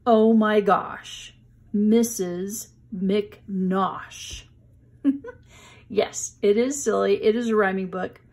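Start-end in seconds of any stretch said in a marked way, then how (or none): 0.1-4.4 slow, stretched title reading; title read slowly. Shown as a demonstration. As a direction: draw the title out for the children. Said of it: "Here is the book".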